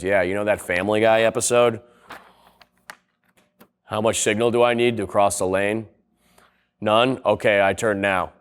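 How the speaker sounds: a low, laid-back guy leaning over to ask. Retold or imitated. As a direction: lightly drop into a low, casual traveller voice.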